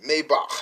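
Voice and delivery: "Maybach" ending on a rasped H; teacher rasping the end of "Maybach". Shown as a demonstration. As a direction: say "Maybach" loudly with a throaty final CH. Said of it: "it got like a rasping H sound".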